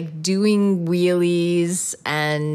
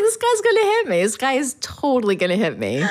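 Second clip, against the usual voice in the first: high-pitched comic panic; mock-panicked inner voice; freaking out; 7 semitones higher than usual. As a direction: retell your panic, voice leaping up at first. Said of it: "I was freaking out the whole time".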